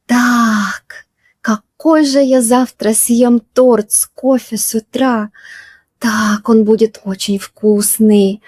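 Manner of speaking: lightly dreamy, savouring the thought of cake; dreamy musing. Shown as a demonstration. Teacher acting out dreaming about breakfast cake. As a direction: drift off daydreaming about tomorrow's cake and coffee. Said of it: "you are dreaming about something".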